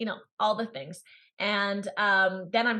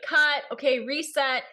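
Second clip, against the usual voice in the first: director calling cut; 5 semitones higher, 3 dB louder than usual. Retold or imitated. Film crew calling out on set.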